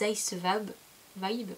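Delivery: "Ice Vibe" said with a clumsy French-English accent; stumbling over "Ice Vibe" in English; bad English accent. Real, not acted. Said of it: "Mon accent anglais, il est affreux". (accent anglais maladroit sur « Ice Vibe »)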